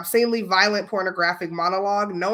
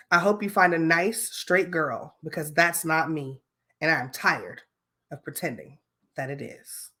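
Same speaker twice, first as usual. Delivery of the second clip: acting voice; 2 semitones lower than usual. Shown as a demonstration. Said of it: "Okay, back into character".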